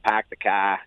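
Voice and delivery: low Boston accent, dropped R in "car". Shown as a demonstration. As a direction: say "car" as "cah", Boston style. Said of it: "everybody knows that".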